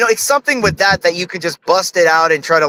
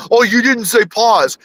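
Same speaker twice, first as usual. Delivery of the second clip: mock accuser; 4 semitones higher, slower than usual. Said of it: "Someone go".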